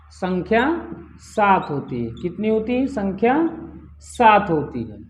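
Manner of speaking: measured dictation, phrase by phrase. Shown as a demonstration. Teacher dictating the count of long vowels, measured dictation. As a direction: repeat in pieces with pauses for note-takers.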